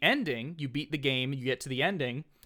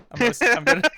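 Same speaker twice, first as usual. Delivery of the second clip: laughing; 10 semitones higher, 11 dB louder, much faster than usual. Real, not acted. Cracking up at linked picture.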